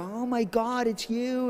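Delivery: high, mock starstruck gasp of recognition; imitated excited fans. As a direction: imitate fans spotting their idol. Retold fans recognizing him.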